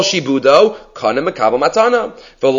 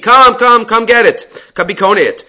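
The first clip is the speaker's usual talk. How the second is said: urgent calling; 6 semitones higher, 3 dB louder than usual. Retold or imitated. Sister urgently calling Rav Dimi.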